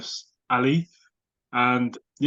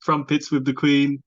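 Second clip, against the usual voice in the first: put-on posh English accent; 2 semitones higher, 3 dB louder than usual. A Londoner mocking the upper-class TV English accent, lightly posh. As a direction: imitate a posh English accent over tea. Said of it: "that kind of dialect".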